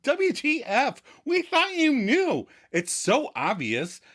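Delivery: high hammed-up friend voice; falsetto Phoebe. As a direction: chirp it like it's obvious. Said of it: "And Phoebe is like".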